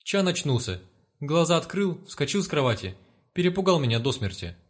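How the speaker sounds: put-on frightened girl. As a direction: report it still a bit shaken. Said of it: "ответила девушка испуганным голосом".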